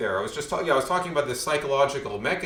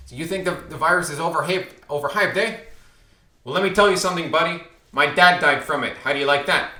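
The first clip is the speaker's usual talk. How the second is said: louder and higher, a retold confrontation; angry stranger; 4 semitones higher, 6 dB louder than usual. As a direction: bark it at him like an angry passer-by.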